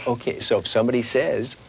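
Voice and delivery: ordinary delivery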